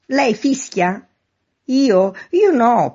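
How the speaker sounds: high, loud short calls; shouted exchange. A narrator's reading. Man in street and neighbour at window, calling loudly. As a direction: call it out across the distance.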